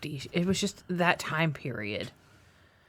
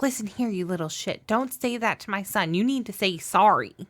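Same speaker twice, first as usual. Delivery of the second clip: mock mom scolding; 4 semitones higher than usual. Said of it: "he pretended to be his mom".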